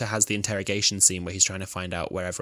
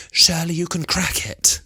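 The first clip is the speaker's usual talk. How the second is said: quoted line; 9 semitones higher, 6 dB louder than usual. Retold or imitated. S0 quotes unicorn character.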